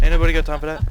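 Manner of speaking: loud high meme quote; meme quote shout. Retold or imitated. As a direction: yell the meme line. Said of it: "meme quote yelled".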